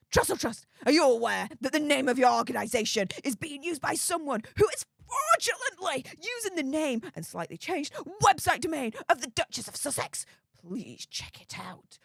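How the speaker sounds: hammed-up indignant fan voice breaking into a fake sob, then fading to almost nothing; mock Sugar voice. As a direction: parody an outraged royal fan tattling to a charity. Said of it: "I'm gonna do it in a proper, like, Sugar accent".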